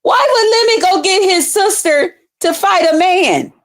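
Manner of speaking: high, disbelieving retelling; mock outraged asking; retold incredulous question. To the audience about Lemon's fight, high and disbelieving.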